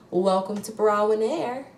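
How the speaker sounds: a hint of an airline cabin announcement; flight attendant voice. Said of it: "the little voice she did".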